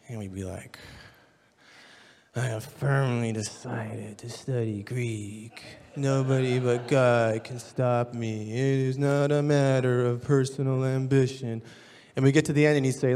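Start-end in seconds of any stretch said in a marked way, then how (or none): 2.3-11.6 bored class recital. Retold or imitated.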